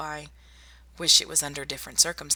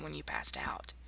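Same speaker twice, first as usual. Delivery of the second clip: whispering; 7 dB quieter than usual. Acted. Remarking on the patient's bruises.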